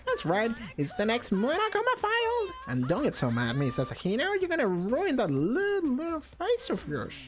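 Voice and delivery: put-on high, sly British-accented bear mascot; mock British villain bear, gleeful; British Monokuma. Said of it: "You make Monokuma sound British".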